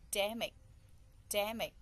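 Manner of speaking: "Damage" with a loud first syllable; stress on first syllable. Shown as a demonstration. Teacher repeats "Damage" to locate the stress, first syllable stressed. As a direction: punch the start of "Damage", let the rest fall. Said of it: "The first two".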